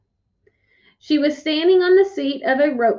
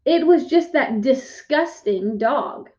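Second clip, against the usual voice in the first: put-on slow snooty girl; slower than usual. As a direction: drag it out, snooty. Sheila sneers.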